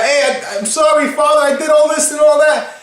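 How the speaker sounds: high, pleading apology to father; mock apology. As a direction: imitate a son blurting his confession. Acted apology of returning son.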